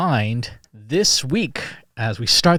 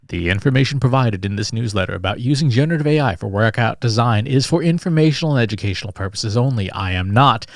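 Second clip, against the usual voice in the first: formal disclaimer read like an announcer; official announcer voice. Shown as a demonstration. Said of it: "I'm gonna read this in official announcer voice".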